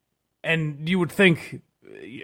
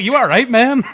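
laughing; 10 semitones higher, 11 dB louder than usual. Retold or imitated. Quoting himself, laughing.

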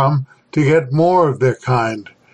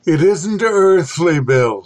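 hoarse; 3 semitones higher than usual. Acted. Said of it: "Sutherland said hoarsely".

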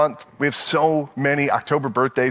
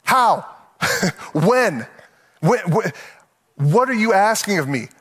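higher, incredulous questions; mock indignant protest; 3 semitones higher than usual. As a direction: argue back at the pastor in disbelief.

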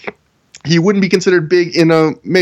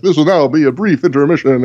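silky, polished PA announcement; smooth announcer voice. Retold or imitated. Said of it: "such a smooth announcer voice".

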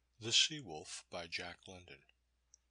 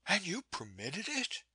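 cried out; 9 semitones higher than usual. A narrator's reading. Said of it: "she cried".

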